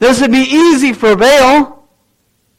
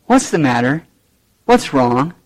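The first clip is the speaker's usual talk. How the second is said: mock concern; 8 semitones lower, 4 dB quieter than usual. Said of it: "wanna give them a heart".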